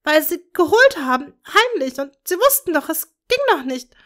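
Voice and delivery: high, loud, grief-stricken cries; anguished screaming. A narrator's reading. Bellatrix to Tom over their dead daughter, anguished scream. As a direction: scream out her pain and rage. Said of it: "schrie Bellatrix leidend".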